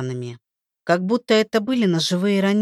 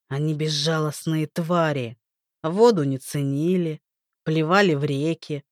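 cold rain god; 4 semitones lower than usual. Acted. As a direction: lecture her with icy contempt. Rain god lecturing coldly. (холодный презрительный бог дождя)

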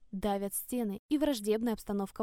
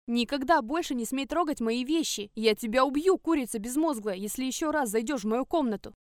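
angry threat; 4 dB louder than usual. Acted. Girl threatens Verka in a fight.

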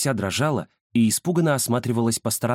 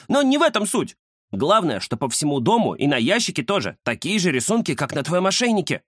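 much higher, eager cat voice; excited tomcat; 7 semitones higher than usual. A narrator's reading. The cat shows his friend the collar clue, high and eager. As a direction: reveal the clue with glee. Kuzya's key point.

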